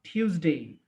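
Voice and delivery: টিউসডে with stress on the first syllable; teacher showing the stressed টিউসডে; with a little stress. Shown as a demonstration. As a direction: lean on the start of টিউসডে. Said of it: "এটা just একটু stress দিয়ে".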